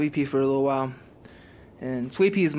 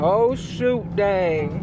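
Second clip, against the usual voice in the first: higher, playful oh shoot; mock dismay; 5 semitones higher, 3 dB louder, much slower than usual. Real, not acted. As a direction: uncle hamming up dismay for his niece. Uncle reacts playfully with niece.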